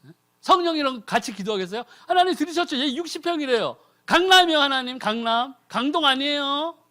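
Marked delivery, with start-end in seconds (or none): 2.1-6.8 a higher, gossipy plea; mock tattling prayer. Preacher mocks the Spirit reporting greed, gossipy and high. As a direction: tell on them to God. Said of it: "이렇게 기도하고 있는 거예요?".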